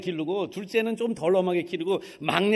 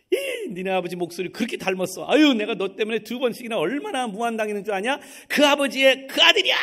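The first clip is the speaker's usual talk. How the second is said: building to a loud, higher shout; exasperated scolding; 3 semitones higher, 4 dB louder than usual. Retold or imitated. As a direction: scold him, rising to a shout. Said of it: "그러시는 거예요".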